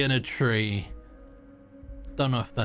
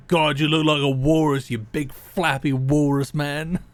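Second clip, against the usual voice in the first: mock shout; 4 dB louder than usual. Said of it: "Just shout at his face".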